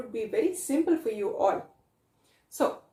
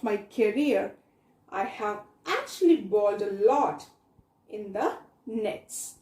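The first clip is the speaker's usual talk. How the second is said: reading a passage aloud. Acted. Teacher reads textbook passage aloud.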